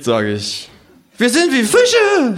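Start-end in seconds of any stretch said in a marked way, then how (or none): 1.2-2.4 high, slow kangaroo voice; drunk kangaroo. Acted. Kangaroo philosophizing at the bar, high slow drawl. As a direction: stretch out the kangaroo's drunken wisdom.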